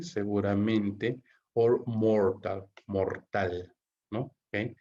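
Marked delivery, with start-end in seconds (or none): 1.5-2.7 reads the option out slowly, word by word. Shown as a demonstration. Teacher reading a test option to students, slowly. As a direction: spell out the choice slowly for the class. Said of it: "reading the answer options aloud".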